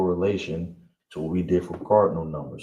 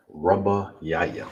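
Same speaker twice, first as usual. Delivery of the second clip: slow model; slower than usual. Shown as a demonstration. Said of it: "we have it right here".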